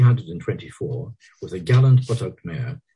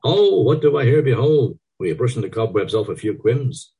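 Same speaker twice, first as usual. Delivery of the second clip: leering tease; 6 semitones higher, 6 dB louder than usual. A narrator's reading.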